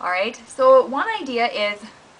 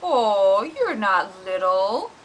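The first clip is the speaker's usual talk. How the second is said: comforting dog; slower than usual. Acted. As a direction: soothe the crying kitten. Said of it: "comforts him and says".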